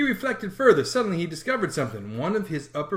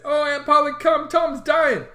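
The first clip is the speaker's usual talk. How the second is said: put-on high, loud, panicked boy calling; frantic child's call; urgent call; 11 semitones higher, 5 dB louder, slower than usual. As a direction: summon Aunt Polly in alarm. Sid running for aunt.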